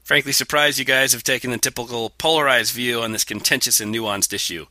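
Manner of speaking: self-satisfied bad New Zealand accent. Host reads listener's complaint, mock New Zealand accent. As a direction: read it in amateur New Zealand. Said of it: "my accent and a real New Zealand accent".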